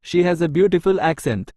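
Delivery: each word spaced out slowly for learners; slow dictation. Shown as a demonstration. Teacher reading an English example sentence to Tamil learners, very slow and clear.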